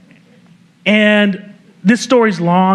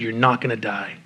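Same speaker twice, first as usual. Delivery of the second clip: quiet reassurance; 9 semitones lower, 9 dB quieter than usual. Retold or imitated. Paramedic reassuring dying patient.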